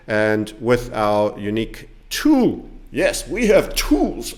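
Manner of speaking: slow, measured central banker voice; deliberate, reassuring official tone; Fed Chairman Powell. Retold or imitated. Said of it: "I sound like the Fed Chairman Powell".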